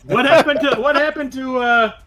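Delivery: high-pitched mock panic from a guard; hammed-up high voice of a baffled guard; bewildered guards. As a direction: play a stunned guard, stumbling over the question. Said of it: "And they're like".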